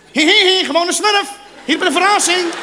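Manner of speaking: high, loud Smurf voice with a giggle; giggly high-pitched little creature; cartoon Smurf. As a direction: squeak it like a mischievous cartoon gnome.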